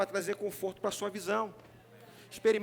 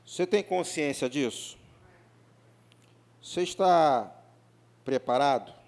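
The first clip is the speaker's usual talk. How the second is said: louder, pressing question; emphatic challenge; 7 semitones lower, 4 dB louder than usual. Real, not acted. Pastor pressing the congregation about the end times, louder. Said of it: "não estou feliz com esse amém".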